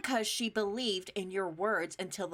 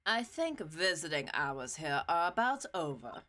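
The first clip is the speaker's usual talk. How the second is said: put-on curt German-accented exit line; 4 semitones lower than usual. Franziska ending the visit, in a German accent. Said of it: "they give Franziska a German accent like I'm doing".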